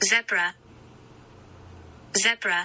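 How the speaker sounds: British English accented pronunciation. In a pronunciation lesson, saying the word first in British pronunciation. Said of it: "영국식 발음 들어보세요".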